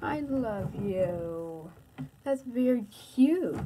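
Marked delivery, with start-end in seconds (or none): 0.0-1.7 tender. Real, not acted. Dad answers child's I love you.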